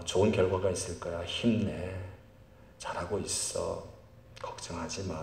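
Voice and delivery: low, soft reassuring words; quiet, tender encouragement; gentle encouragement. Acted. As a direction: softly reassure someone, keeping it low. Examples of encouraging, blessing words.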